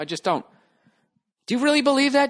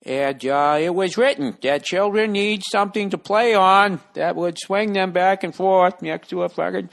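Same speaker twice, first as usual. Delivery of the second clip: louder, slow, booming sermon voice; preacher; 2 semitones higher, 4 dB louder than usual. Retold or imitated. Comic mocking preachers telling Genesis, loud and slow. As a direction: thunder it from the pulpit. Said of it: "preachers are doing".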